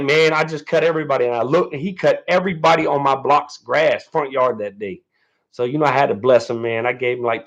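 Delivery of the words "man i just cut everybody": a hint of an old man, quick and casual; lightly voiced neighbor, faster. Neighbor shrugging off mowing every yard, lightly imitated. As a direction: toss it off like the neighbor did. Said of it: "So he was like".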